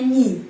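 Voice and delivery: не said short as ni, with no ye glide; teacher's pronunciation demo; pronounced ni. Shown as a demonstration. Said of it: "pengucapannya biasanya ni".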